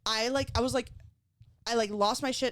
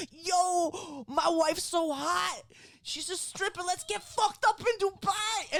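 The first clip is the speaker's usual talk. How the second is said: mock bratty kid; 9 semitones higher, much slower than usual. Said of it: "And he's like".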